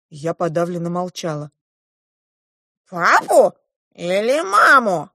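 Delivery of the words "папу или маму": high, drawn-out dwarf question; insistent dwarf. A narrator's reading. The dwarf repeats his question to the girl, insistent. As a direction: ask it high and slow, stretching each option. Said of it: "переспросил карлик".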